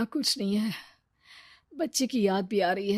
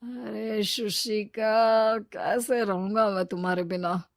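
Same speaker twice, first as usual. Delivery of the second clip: mock pining; slower than usual. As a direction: stretch her name out, longing. Lover pining for girlfriend.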